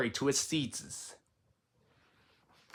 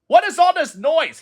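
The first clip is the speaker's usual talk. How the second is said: surprised; 12 semitones higher, 8 dB louder than usual. Acted. Frog running in, alarmed.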